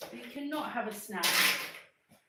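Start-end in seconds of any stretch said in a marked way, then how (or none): 2.1-2.2 puffing after chasing the dog; breathless, still panting; out of breath. Real, not acted. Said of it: "I'm so out of breath".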